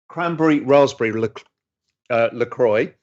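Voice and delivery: choking on an almond. Real, not acted. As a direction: talk while choking on a nut. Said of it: "I'm choking on an almond".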